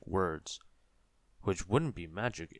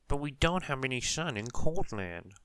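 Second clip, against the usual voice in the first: Mister Sneeze voice; 5 semitones higher, 5 dB louder than usual. A narrator's reading. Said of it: "said Mister Sneeze".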